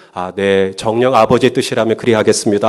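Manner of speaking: low, solemn mock submission; mock obedience. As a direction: play an absurdly dutiful child. Mock obedient child answering parent. (짐짓 공손하게 순종하는 말투)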